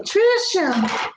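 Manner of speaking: mother-in-law calling her name. Retold or imitated. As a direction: call out Trisha like the mother-in-law. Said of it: "That's how she sounds".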